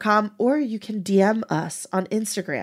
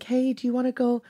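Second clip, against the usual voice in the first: a hint of a sugary mom waking her daughter; sweet mom voice; 2 semitones higher than usual. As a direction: coax gently like a sweet mother waking her kid. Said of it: "wakes me up so sweetly".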